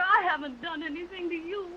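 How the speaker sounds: crying voice, breaking on the words; tearful pleading. Acted. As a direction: plead through tears.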